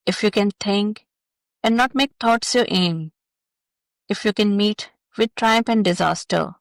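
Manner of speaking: measured verse recitation with pauses between lines; poem reading. Acted. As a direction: read the poem aloud, line by line. Reads a poem aloud.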